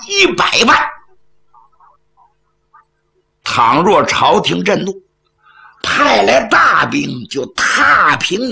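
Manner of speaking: 客气里藏着威胁，时而拔高嗓门; 笑着讲理，字字压人; 软中带硬. Acted. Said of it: "说话是软中带硬". (软中带硬的威胁口吻)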